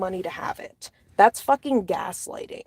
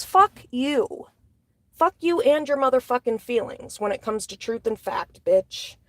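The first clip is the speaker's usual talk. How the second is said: real anger, pitched up; pissed off; 2 semitones higher than usual. Real, not acted. Vlogger cursing those who put feelings over facts, angry. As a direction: curse them out indignantly. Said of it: "I'm pissed".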